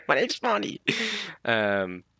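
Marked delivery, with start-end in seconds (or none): 0.1-0.8 tag. Retold or imitated. Voices Bonnie correcting her nickname.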